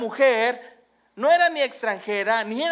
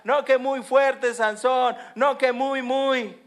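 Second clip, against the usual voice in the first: slow, louder jeering taunt; mocking taunt; 3 semitones higher, 3 dB louder, slower than usual. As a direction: sneer at the fallen strongman. Philistines taunting Samson.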